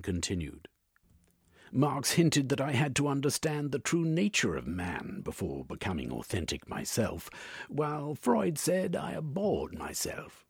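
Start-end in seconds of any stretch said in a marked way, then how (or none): 1.7-10.4 lightly voiced patient, pitched higher; earnest Velvin voice. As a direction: explain yourself to the analyst, higher than narration.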